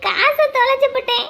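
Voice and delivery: tearful admission; crying. Acted. Girl telling her brother of lost money, crying. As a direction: own up through tears. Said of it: "என்னத்துக்கு அழுகுற".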